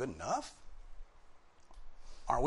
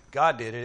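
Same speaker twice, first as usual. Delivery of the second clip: GOD punched louder; driven home; 7 dB louder than usual. Shown as a demonstration. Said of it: "the idea is driven home".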